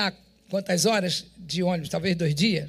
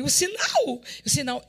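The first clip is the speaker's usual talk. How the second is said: "O sinal" bem agudo, depois rindo; alegria; 6 semitones higher than usual. Retold or imitated. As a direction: grite de alegria ao reconhecer o sinal. Recebe o microfone como sinal. (ao abrir a caixa e ver o microfone, grito alegre e risada)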